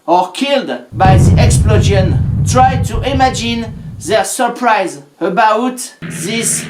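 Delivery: a grave, ceremonial narration voice; solemn documentary read. Acted. History narrator opens his video with a solemn tribute. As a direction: intone it like a memorial tribute.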